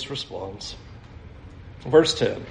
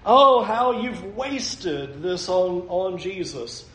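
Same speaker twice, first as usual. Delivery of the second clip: mock sanctimonious lament; pious and righteous; 4 dB quieter than usual. Disciples lamenting the good they could have done, mildly pious. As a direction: play a touch of self-righteous dismay. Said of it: "being very pious and righteous".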